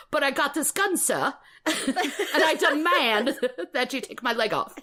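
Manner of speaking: mock English accent breaking into laughter; Oliver Twist. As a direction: demand through giggles in a put-on English accent. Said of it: "I channel Oliver Twist".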